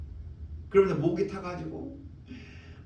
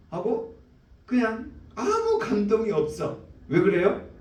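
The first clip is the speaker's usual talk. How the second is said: ordinary delivery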